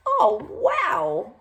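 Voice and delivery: high, loud delighted cry; excited yell. Acted. Orson sees the plane and yells, thrilled. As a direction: shout with pure joy. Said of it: "Orson yelled".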